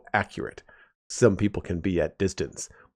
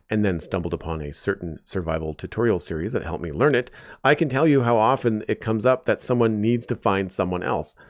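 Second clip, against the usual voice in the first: Disney villain voice; 2 semitones higher than usual. Acted. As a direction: read it like a hammy cartoon villain. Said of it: "in his best Disney villain voice".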